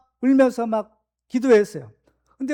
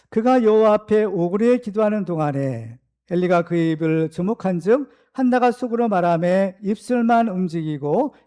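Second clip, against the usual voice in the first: measured reading of a Bible verse; steady, formal recitation; scripture reading; 3 semitones lower than usual. Acted. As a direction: read the verse out evenly to the congregation. Congregational scripture reading aloud.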